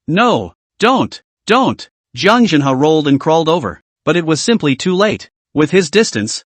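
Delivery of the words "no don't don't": higher, pleading no; desperate plea. A narrator's reading. Grandfather begs the demon not to kill, desperate. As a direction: cry out to stop the axe.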